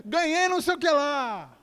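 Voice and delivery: high-pitched thrilled imitation; excited good news. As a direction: burst out to the pastor with great news. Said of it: "quando é bem, você fala assim".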